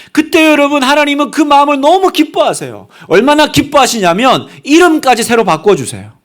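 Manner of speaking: high, emphatic pulpit delivery; impassioned preaching. Real, not acted. Preacher telling the congregation of God's delight, impassioned. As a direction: proclaim it with rising fervor.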